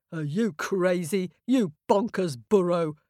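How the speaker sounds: lightly voiced rude ram; a hint of a scoffing old ram. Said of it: "the Ram stamped his foot and said".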